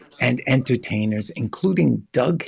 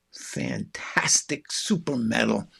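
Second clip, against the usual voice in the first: mock-grand whispered prize; teasing whisper about the prize; 3 semitones lower, 5 dB quieter, slower than usual. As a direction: breathe it like a secret treasure.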